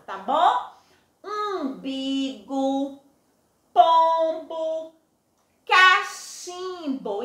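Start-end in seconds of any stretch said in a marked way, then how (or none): 1.2-7.2 Umbigo, pombo, cachimbo spelled out slowly, nasal m; slow syllable demo. Shown as a demonstration. Teacher models Umbigo, pombo, cachimbo for pupils. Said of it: "prestem atenção".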